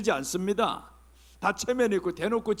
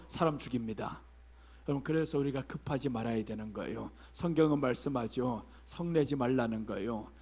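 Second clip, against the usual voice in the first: quiet; 6 semitones lower, 6 dB quieter than usual. Real, not acted. Preacher drops to quiet.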